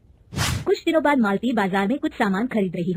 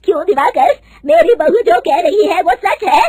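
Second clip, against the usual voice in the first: loud, higher, slow furious demand; mother-in-law angrily confronting the cheating manager; angry demand; 8 semitones higher, 11 dB louder than usual. Acted. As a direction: confront him with fury. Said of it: "गुस्से से दिवाकर को पूछती है".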